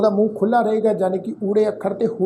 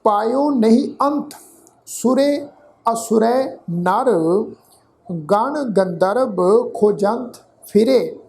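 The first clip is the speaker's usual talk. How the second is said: slow, careful scripture reading; slow recitation; slower than usual. Shown as a demonstration. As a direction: recite each phrase slowly for students. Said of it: "ਇੱਕ ਵਾਰ ਫਿਰ ਤੋਂ ਪਾਠ ਉਚਾਰਨ ਕਰ ਰਹੇ ਹਾਂ ਜੀ".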